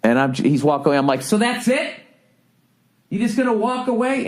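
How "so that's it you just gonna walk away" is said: high-pitched, disbelieving questions; incredulous. Retold or imitated. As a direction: call after someone in squeaky disbelief. Stunned as clerk walks away.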